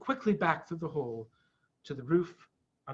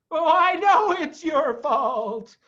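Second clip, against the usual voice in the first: high, slow, indignant Badger; furiously; 11 semitones higher, 7 dB louder, slower than usual. A narrator's reading. Badger blaming Mister Fox, furious. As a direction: bite out the blame. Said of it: "said Badger furiously".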